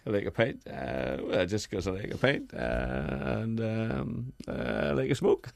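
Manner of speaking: lightly voiced golfer chatting; a hint of Darren Clarke, easy and casual. Comedian trying out Darren Clarke voice, lightly done. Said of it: "let's get the voice".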